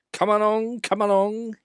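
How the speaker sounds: high, loud chugging call; an engine puffing to hurry his coaches. A narrator's reading. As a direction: puff the words like a busy engine. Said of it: "he puffed".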